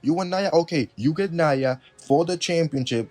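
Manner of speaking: lightly voiced fed-up GM; mock Pearce caving. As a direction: cave in with sarcastic okays.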